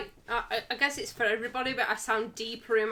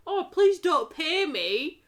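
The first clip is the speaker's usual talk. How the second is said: slow, higher sarcastic begging; mock pleading refusal; 5 semitones higher, 3 dB louder, slower than usual. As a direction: feign a modest plea, drawn out. Mock quote of refusing money.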